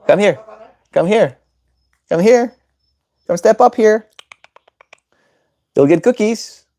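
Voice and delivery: high coaxing promise of treats; bribing. Real, not acted. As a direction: lure her with cookies, sweetly. Bribing bird with cookies.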